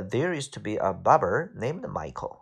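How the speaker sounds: American English, r-coloured barber; American pronunciation. Shown as a demonstration. Teacher showing students the American version, American r's. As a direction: say it American, sounding the r in there and barber. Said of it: "美式发音就是".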